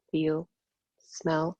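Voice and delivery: contemplative, with long pauses between phrases; measured meditation teacher, trailing into stillness; guided meditation. Real, not acted. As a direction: let each thought land before the next. Meditative reflection while guiding.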